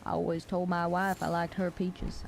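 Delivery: measured Southern gentleman accent, lightly attempted; classy Southern gentleman. Shown as a demonstration. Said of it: "classy Southern gentleman?".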